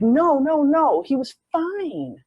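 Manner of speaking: high, urgent protest; insistent denial. Retold or imitated. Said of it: "And she's like".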